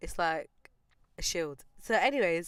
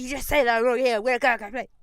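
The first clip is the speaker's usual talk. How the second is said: raised, louder mimicked scolding; mock her loud telling-off; imitated shouting; 4 semitones higher, 7 dB louder than usual. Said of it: "Why are you shouting for?".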